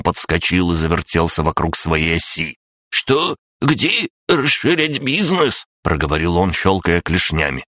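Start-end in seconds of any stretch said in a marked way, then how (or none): 2.9-5.7 very high, dazed crab creature; snappy clicking crab. Acted. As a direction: wake up confused and squeaky. Crab gnome voiced, waking.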